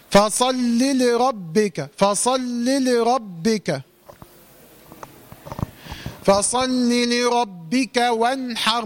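slow recitation. Shown as a demonstration. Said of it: "correct recitation demo".

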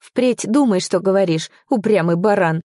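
irritated telling-off; angry retort. Acted. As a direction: fling it back crossly. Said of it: "Зло бросила я".

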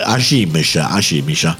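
Neapolitan dialect. Pretend. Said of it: "parla napoletano".

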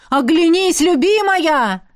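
high, loud urgent call; dragon calling. A narrator's reading. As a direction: plead with her like a roaring dragon. Дракон продолжает звать. (высокий громкий зов дракона)

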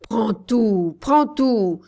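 loud, fast defeated witch voice; loud, rushed surrender; frantic offer. Acted. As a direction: push everything at the child in panic. Defeated witch gives everything.

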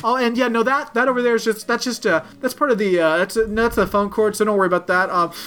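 imitated nervous cover-up; breezy cover-up. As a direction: play innocent, explaining it away. Covering up in front of family.

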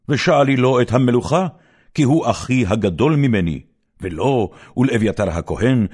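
a king snapping back at his mother's request; indignant king. Acted. Solomon rebukes his mother angrily. (תוכחה זועמת ורמה)

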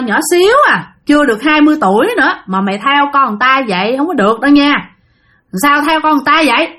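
put-on stern old hermit scolding a spirit; angry interrogation. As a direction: grill the intruder, growing sharper. Old man interrogates possessing spirit.

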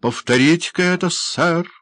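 high, loud, quick challenge; indignant outcry. A narrator's reading. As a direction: dare him to repeat it, outraged. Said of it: "вскричал мистер Бамбл". (громко, с возмущением)

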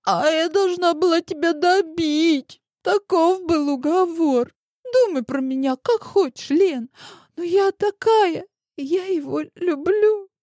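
put-on high pleading girl; defiant tearful girl; голос девушки; young girl's voice. A narrator's reading. Rival girl confessing.

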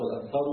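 "والأنصار" ending in -u, wal-ansaru; reading with damma. Shown as a demonstration. Teacher demonstrating Umar's reading, "والأنصار" with damma. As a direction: say "والأنصار" with a final u. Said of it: "بالضم موجودة في القراءة المتواترة".

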